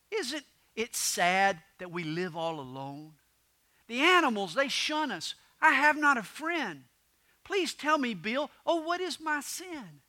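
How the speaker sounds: hammed-up woe, pleading as it rises; sorrowful moan. Lonely porcupine Willie laments to friend Bill, sorrowful moan. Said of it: "with a sorrowful moan".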